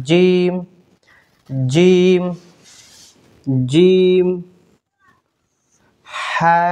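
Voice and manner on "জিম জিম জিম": জিম said hard and firm. Shown as a demonstration. Teacher modelling a hard জিম for students. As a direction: press জিম out strongly. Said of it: "আমার সঙ্গে সঙ্গে উচ্চারণ করেন".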